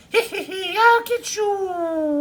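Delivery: high, slow witch cackle. Shown as a demonstration. Wog showing off her frightening cackle, witch cackle. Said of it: "Witches cackle like this".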